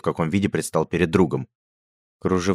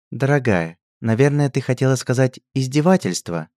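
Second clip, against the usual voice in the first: gently; 8 semitones higher, 4 dB louder than usual. A narrator's reading. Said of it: "мягко вмешалась герцогиня Анна".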